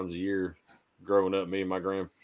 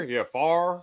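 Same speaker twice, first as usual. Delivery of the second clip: "far" for fire, one drawled syllable, high; North Carolina accent; 8 semitones higher than usual. Retold or imitated. Imitating North Carolina workmate's answer, North Carolina accent. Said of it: "the guys from, uh, North Carolina".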